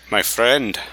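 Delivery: badly faked Middle Eastern accent; terrible accent. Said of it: "No, that's terrible".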